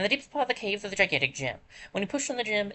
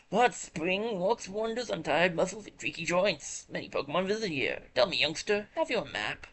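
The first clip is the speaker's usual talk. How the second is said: a gentle elder, unhurried; old creature voice; 2 semitones higher than usual. Acted. Voicing elderly hot spring keeper.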